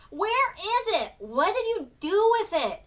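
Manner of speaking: very high, loud, slow screeched demand; furious screech. A narrator's reading. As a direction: shriek the questions in rage. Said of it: "furiously screeched".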